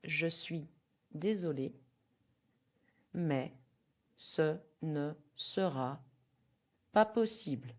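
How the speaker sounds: broken into slow chunks with pauses; teacher drilling a refusal phrase; slow repeat-after-me. Shown as a demonstration. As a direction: chunk it for the class to echo. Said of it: "You can repeat".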